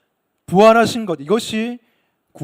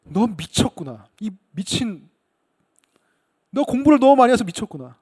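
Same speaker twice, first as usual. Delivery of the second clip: mock outrage, only partly raised; agitated outburst. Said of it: "아주 격렬하게 흥분해서 크게 소리쳤습니다".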